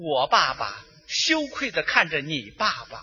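mock-solemn narration. Hushed, solemn mock war narration.

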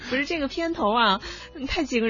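words breaking into giggles; laughing while she talks. Real, not acted. Still laughing at the intro.

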